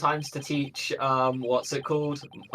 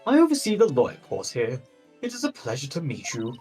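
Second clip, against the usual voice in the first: viking. Acted. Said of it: "what Viking voice do I give him".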